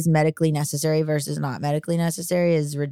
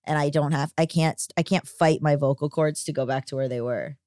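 monotone voice. Real, not acted. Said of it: "I feel like I sound very monotone now".

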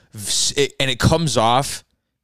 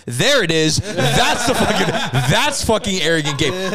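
laughing; 6 semitones higher than usual. Retold or imitated. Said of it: "And I was like".

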